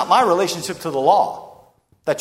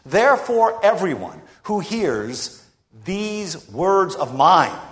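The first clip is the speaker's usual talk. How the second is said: slow solemn quote; slower than usual. Acted. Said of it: "and he says this".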